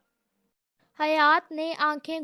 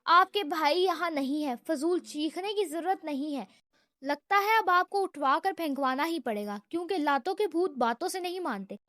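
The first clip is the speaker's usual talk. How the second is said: sarcastic patience. Acted. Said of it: "طنز بھرا تحمل".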